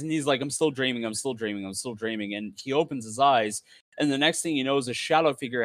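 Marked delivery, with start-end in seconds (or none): 0.4-2.3 a mantra that dies out; fading repeated mantra. Acted. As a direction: chant it to yourself, fading away. Character begging himself to wake.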